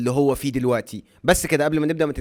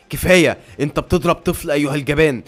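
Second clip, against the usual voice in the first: louder, outraged yell; furious shout; 5 dB louder than usual. Acted. Claus raging at the guard who hit the boy, furious. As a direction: explode at the coward hitting a child. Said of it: "بيتغاظ وبيصرخ".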